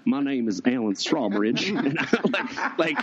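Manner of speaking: a hint of a low country cowboy; lightly voiced cowboy introducing himself; country western drawl. Mocking the guest's name as a low country cowboy. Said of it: "'cause it sounds like".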